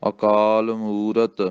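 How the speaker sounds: ਅਕਾਲ ਮੂਰਤ fully said, ਮੂਰਤ complete; ਪੂਰਾ ਉਚਾਰਨ; full pronunciation. Shown as a demonstration. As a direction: say every sound of ਮੂਰਤ. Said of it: "ਇਹਨੂੰ ਪੂਰਾ ਬੋਲਣਾ".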